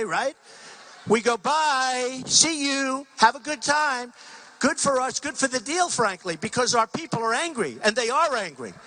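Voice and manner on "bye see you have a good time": higher, mock-casual farewell; lightly acted dismissive goodbye, pitched up; breezy send-off. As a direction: wave them off as you walk out. Acted walk-out from negotiations.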